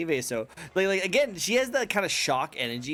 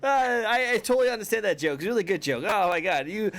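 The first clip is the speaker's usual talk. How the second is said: high, hammed-up laughing praise; overdone mock hilarity; fake laughing along; 6 semitones higher, 4 dB louder than usual. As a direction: laugh too hard at a joke you didn't get. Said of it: "Just laugh anyway".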